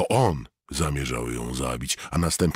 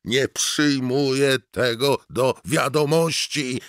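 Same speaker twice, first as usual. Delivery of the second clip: much higher, louder, strained scream; screamed denial; 12 semitones higher, 6 dB louder than usual. Acted. Mort screaming at the voice in his head, high and loud. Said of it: "wrzasnął".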